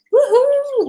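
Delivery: high, excited whoop; woohoo cheer. Real, not acted. Cheering before starting a reading.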